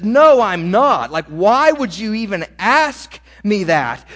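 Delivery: loud, slow, exasperated answer; angry retort. Acted. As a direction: snap back as if the question is stupid. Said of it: "And John angrily says".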